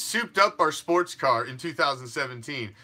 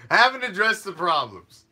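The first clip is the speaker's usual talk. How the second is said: mocking loud; 3 semitones higher, 4 dB louder than usual. Mocking refrain, two takes.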